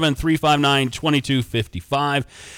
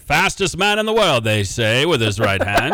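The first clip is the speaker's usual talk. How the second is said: put-on old-timey voice; 3 dB louder than usual. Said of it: "hear me do the old-timey voice".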